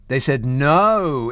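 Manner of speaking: "no" drawn out and landed slowly; stress on no. Real, not acted. Presenter hammering home the refusal, slow stress on no. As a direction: lean hard on "no". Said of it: "repeating for stress".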